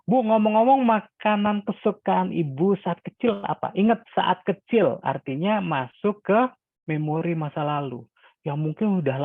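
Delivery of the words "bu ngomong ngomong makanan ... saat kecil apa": lively curious asking. Shown as a demonstration. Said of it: "Tapi kalau".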